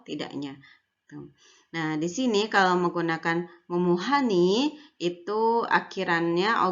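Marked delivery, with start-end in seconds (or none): 3.7-4.8 "memuhani" with a lifted last syllable; slightly rising ending. Shown as a demonstration. Teacher showing students the question ending, slightly rising. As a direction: nudge the pitch up at the end of "memuhani". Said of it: "intonasinya agak menaik".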